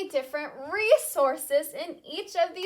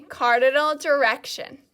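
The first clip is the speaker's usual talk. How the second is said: louder, carefully spaced model of "Cardinal direction"; model for repeating; 9 dB louder than usual. Shown as a demonstration. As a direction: set it up for the class to echo. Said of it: "repeat after me".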